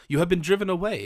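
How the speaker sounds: a king's indignant exclamation; exclaimed. A narrator's reading. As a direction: burst out in shocked anger. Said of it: "exclaimed the king".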